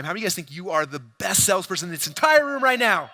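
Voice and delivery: rally the crowd at full voice; big stage call to nine thousand. Shown as a demonstration. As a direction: shout it out to the whole room. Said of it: "let's see it one more time".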